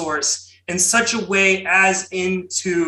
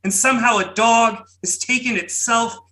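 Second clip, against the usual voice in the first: dramatic booming poetry recitation; 2 semitones higher than usual. Pretend. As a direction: boom it out like a grand old poet. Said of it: "my most outlandish Berryman-esque booming voice".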